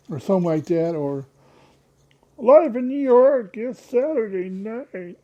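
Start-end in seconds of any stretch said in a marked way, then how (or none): 2.4-5.2 slow, higher and louder drawn-out show opener; mock Saturday night announcer; TV announcer impression. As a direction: announce it like a late-night TV intro. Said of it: "I do voices like that sometimes".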